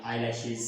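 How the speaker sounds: "आईलैशेस" ending on a Z sound in place of S. Shown as a demonstration. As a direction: say "आईलैशेस" with a voiced buzz at the end. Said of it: "जी की sound".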